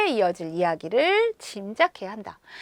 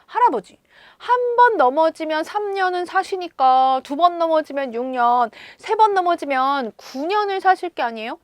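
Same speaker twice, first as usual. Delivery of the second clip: lightly voiced boy, raised pitch, cheerful; a hint of an unbothered, smiling child; 5 semitones higher than usual. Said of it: "싱긋 웃으며 이렇게 대답했습니다".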